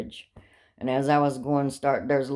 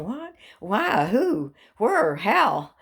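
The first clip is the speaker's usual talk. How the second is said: panicked questions; 6 semitones higher, much slower than usual. Retold or imitated. Rapid retold panic questions.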